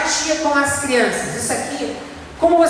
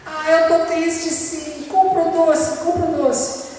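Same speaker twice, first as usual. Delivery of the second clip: put-on higher, whining kid begging for candy; whiny child; 4 semitones higher, slower than usual. Child in the supermarket whining to his parent for candy. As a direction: play a child pleading for a sweet.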